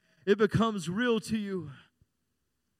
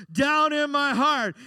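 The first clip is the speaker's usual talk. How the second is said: put-on children's answer yelled louder and slow; mock kids' shout; 3 semitones higher, 6 dB louder, slower than usual. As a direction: holler it back like a Sunday school kid. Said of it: "we would scream at the top of our lungs".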